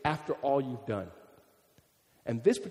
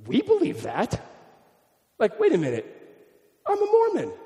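half-hearted shock, pitch jumping much higher on Mormon; mock shocked Mormon; 11 semitones higher, 4 dB louder than usual. Preacher voicing a startled Mormon reading his scripture, mock alarm. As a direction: play a Mormon suddenly alarmed at his own creed. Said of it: "you'd go".

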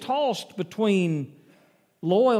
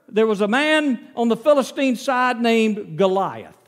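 ordinary delivery

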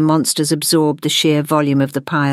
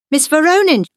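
high exclamation of realization; exclaiming; 11 semitones higher, 4 dB louder than usual. A narrator's reading. Gwendolyn to her teacher, exclaiming high. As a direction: cry it out as it dawns on you. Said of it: "Gwendolyn exclaimed".

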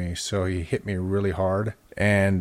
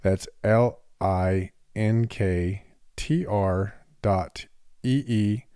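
ad read. Acted. Host reads the promo spot for listeners, ad read. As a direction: read it like a podcast sponsor spot.

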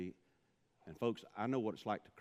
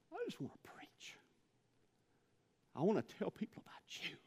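hushed, breathy plea to God; whispered prayer; 13 semitones higher than usual. Retold or imitated. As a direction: whisper it like a confession. Retold desperate prayer.

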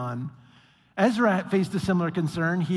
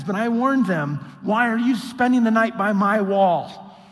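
louder, slow, threatening read; stern warning; 4 semitones higher, 6 dB louder than usual. Retold or imitated. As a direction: lean into the threat. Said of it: "this is what he says".

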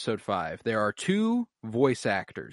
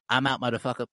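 mimicking alien; faster than usual. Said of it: "it sounds exactly like".

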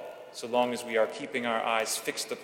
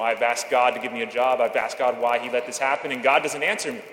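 louder, mock-frustrated complaint; exasperated outburst at God, retold with some heat; retold ranting; 7 dB louder than usual. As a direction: rant like a young man who lost his job, half-acted. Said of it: "ranting and raving and just losing his mind and complaining".

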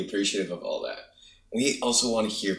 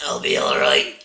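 choking on a drink; 7 semitones lower, 8 dB louder than usual. Real, not acted. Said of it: "Coffee went down the wrong pipe".

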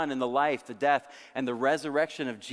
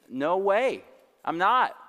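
high-pitched acted protest; hammed-up insistent denial; emphatic denial; 6 semitones higher, 5 dB louder, slower than usual. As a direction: deny it hard, pitched up. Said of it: "he emphatically denied him three times".

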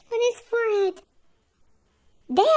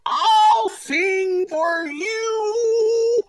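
much lower, slow sung donkey voice; donkey's lullaby; 6 semitones lower, much slower than usual. A narrator's reading. Missus Donkey singing baby elf a low, slow lullaby. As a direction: bray it gently as a lullaby. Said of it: "came and sang a song".

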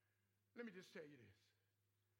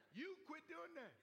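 raised scolding; 7 semitones higher than usual. Retold or imitated. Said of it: "So God say".

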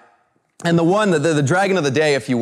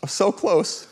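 quiet regret; 4 semitones higher, 4 dB quieter than usual. Retold or imitated. Reliving frustration at the dragon.

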